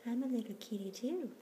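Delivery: high cutesy kitten voice. Pretend. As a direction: speak for the little kitty. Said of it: "voicing kitten".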